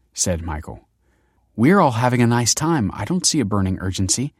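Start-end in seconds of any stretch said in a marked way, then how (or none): 1.6-4.3 curt. Acted. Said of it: "said Kelsey curtly".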